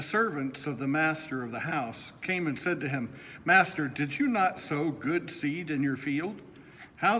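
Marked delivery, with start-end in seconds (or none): none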